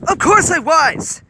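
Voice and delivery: loud, high, slow shout; shouting back. A narrator's reading. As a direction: yell it right back. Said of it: "Hiro shouted back".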